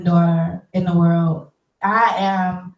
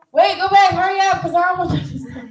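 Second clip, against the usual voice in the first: urgent; 10 semitones higher than usual. Real, not acted. Urgently calling to the editor.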